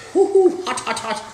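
high loud hoot at the heat; hoo-hoo. Real, not acted. Cook yelping at the hot dish, high hoot. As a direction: yelp it like the dish burns.

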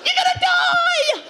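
high, slow shouted warning; mock shout. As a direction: yell it up at the truck.

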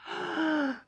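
loud harsh cawing; crow caw. Acted. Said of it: "he went".

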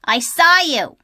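Lola's voice. Acted. Little sister teasing brother.

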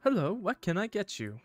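high-pitched polite server voice; takeaway worker. Acted.

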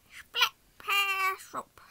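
laughing. Real, not acted. Echoes the name, laughing.

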